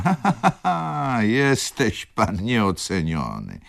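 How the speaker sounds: high acted peal of laughter into slow, drawn-out words; bursting into laughter. A narrator's reading. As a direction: burst out laughing, then stretch the praise out. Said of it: "wybuchnęła śmiechem". (zagrany wybuch wysokiego śmiechu)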